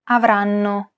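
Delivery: "Avranno" with every syllable given roughly equal time; syllable-timed rhythm. Shown as a demonstration. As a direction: say "Avranno" evenly, syllable by syllable, holding the first n. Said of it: "each syllable is pronounced for roughly the same amount of time".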